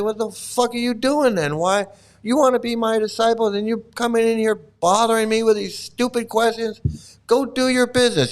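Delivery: mock mad. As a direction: scold a pestering disciple, hamming it up. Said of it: "Prabhupada's getting mad".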